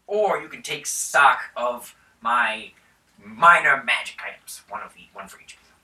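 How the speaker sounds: a hint of a generous lord bargaining; mildly grand baron; lightly voiced baron. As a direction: offer the gold grandly. Baron offers reward.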